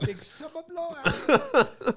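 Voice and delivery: slow, high and loud drawn-out hype; mock announcer. Echoing the friend's party slogan with slow, loud hype. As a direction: stretch it out like a big event poster.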